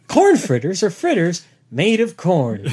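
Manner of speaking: slow, mock-grand reading of the line; mock solemn rereading. Shown as a demonstration. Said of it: "worst Wikipedia page ever".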